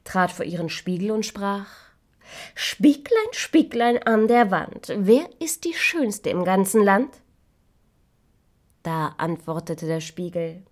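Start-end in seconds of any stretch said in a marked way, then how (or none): 2.6-7.2 much higher, slow, louder incantation; vain queen. Acted. Queen asking her mirror, high slow and grand.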